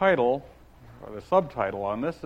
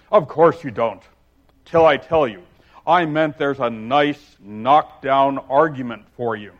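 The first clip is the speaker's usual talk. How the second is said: smug lecturing egg; contemptuous; 10 dB louder than usual. Acted. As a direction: talk down to the child. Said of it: "Humpty Dumpty smiled contemptuously".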